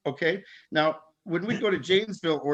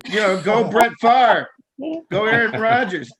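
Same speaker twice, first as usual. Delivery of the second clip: eager Packers cheer; 5 semitones higher, 6 dB louder than usual. Retold or imitated. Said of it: "So I was like".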